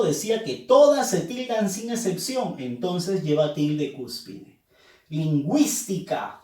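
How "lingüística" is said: "Lingüística" with the weight on "güís"; stress on GÜÍS. Shown as a demonstration. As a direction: lean on the second syllable of "Lingüística". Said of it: "fuerza de voz en wis".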